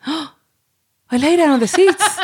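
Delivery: slow, high, gasping laugh through words. Real, not acted. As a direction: realize it mid-sentence, laughing. Laughing realization, repeats line slowly.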